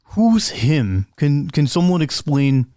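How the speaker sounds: confused, asking for help; Edward confused. Acted. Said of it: "And Edward goes".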